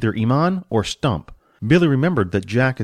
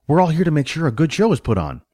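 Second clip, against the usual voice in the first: lightly voiced manager, higher than the narration; friendly stage manager; 5 semitones higher, faster than usual. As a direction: welcome the new guard as manager. Manager reassures new guard.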